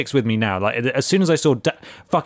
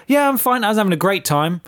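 fake cheerful reply; 10 semitones higher, 3 dB louder than usual. Her own fake-cheerful reply.

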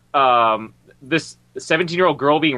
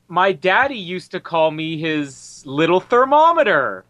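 lightly imitated girl, drawn out; slow, mock girlish retelling; seventeen-year-old girl; slower than usual. Film girl talking to old man Niven, slow mock girlishness. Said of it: "as she said".

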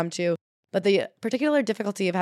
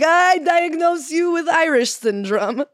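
higher, louder, slow pompous diagnosis; hammed-up doctor handing down a verdict; mock doctor diagnosis; 8 semitones higher, 5 dB louder, slower than usual. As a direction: pronounce it like a grave verdict. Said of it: "They'd be like".

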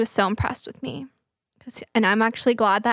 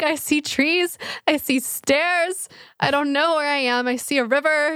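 retold panic; 4 semitones higher than usual. Retold panicked phone call while lost.

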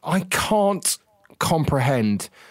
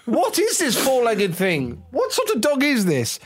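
peer at the dog like a snooty aristocrat; posh voice; 10 semitones higher than usual. Pretend. Mocking posh teammates puzzling over the dog, high plummy voice.

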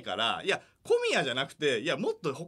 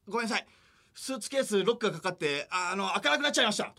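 higher, meek apologizing; sheepish apology; 6 semitones higher than usual. Retold or imitated. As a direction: own up timidly. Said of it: "加賀が". (申し訳なさそうに謝る加賀)

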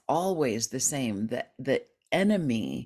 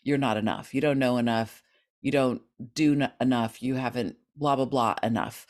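negative inner voice; 4 semitones lower, faster than usual. Retold or imitated. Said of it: "a really negative voice".

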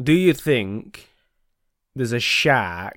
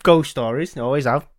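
put-on light Yorkshire old lady voice; mild Yorkshire granny impression; Yorkshire accent. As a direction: read her letter with a hint of Yorkshire. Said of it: "Why is she Yorkshire?".

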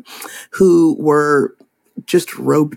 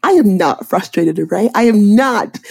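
imitating dad's emphatic denial, rising on the repeat; retold frustrated protest; mock frustrated denial; 4 semitones higher than usual. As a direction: insist on it, mildly exasperated. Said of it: "you say that very frustrated".

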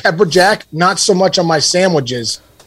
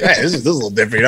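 mock New Yorker parents; 6 semitones lower, 4 dB quieter, much faster than usual. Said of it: "So they're like".

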